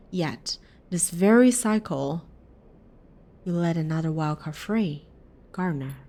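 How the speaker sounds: measured, dramatic game-text reading; story narration. A narrator's reading. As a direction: read the game's story aloud with deliberate pauses. Reads game's story text aloud.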